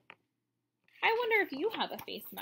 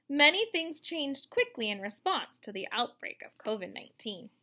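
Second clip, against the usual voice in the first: clear, bright storybook reading; reading to children. Acted. Teacher reads the book's explanation to her young class, read-aloud style.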